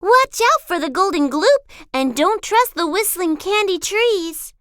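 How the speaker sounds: mild friendly warning; Captain Cook warning. A narrator's reading. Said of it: "she said".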